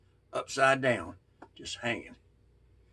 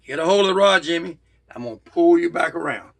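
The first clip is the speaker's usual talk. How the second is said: calling down; 3 semitones higher, 6 dB louder than usual. Retold or imitated. Calling down to friend below.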